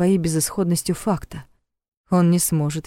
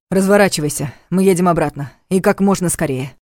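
louder, firm command; firm order; 4 dB louder than usual. Acted. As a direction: give the order firmly. Repeats order firmly.

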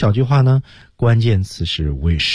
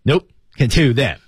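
firm refusal; 4 semitones higher than usual. Shown as a demonstration. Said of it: "坚决".

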